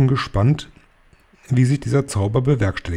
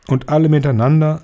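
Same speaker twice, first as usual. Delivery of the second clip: sly grin; 5 semitones higher, 5 dB louder than usual. Acted. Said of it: "mit einem tückischen Grinsen".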